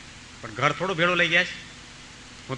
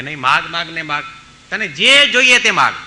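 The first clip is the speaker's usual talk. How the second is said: rising to a commanding call; loud urging; 6 dB louder than usual. Retold or imitated. Saints pressing the boy again, loud and insistent. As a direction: insist he must ask.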